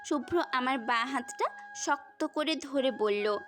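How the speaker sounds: ordinary talk, nothing marked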